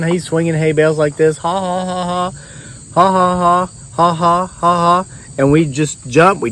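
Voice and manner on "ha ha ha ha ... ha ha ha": high mock cackle; ghostly laugh. Ghost laughing while swinging hay bales. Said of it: "and he's laughing".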